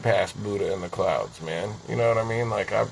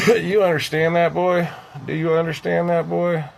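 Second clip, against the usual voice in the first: raised, higher challenging voice; confrontational demand; 7 semitones higher, 5 dB louder than usual. Acted. Man challenging a listener after ranting on liars, loud and confrontational. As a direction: demand an answer loudly, pressing the question.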